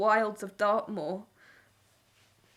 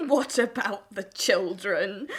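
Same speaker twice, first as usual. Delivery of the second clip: bitter echo; slower than usual. Acted. Wife throws husband's words back.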